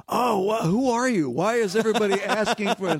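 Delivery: high, quick mock bystander voice; high-voiced nosy stranger; clueless onlooker. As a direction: pitch it up, pestering with questions. Other people confronting him, acted quote.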